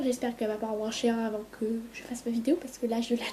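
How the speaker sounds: whispered aside, annoyed at mum; real whisper. Real, not acted. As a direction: hush it so mum won't hear. Annoyed aside about mum's vacuum. (chuchoté, agacée contre maman)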